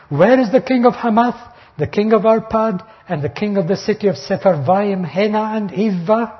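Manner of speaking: preacher voicing the Assyrian envoy taunting Hezekiah; mocking taunt. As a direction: jeer at Hezekiah, rolling off each conquered king. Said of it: "See the double taunt".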